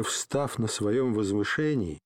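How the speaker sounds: ordinary delivery, nothing marked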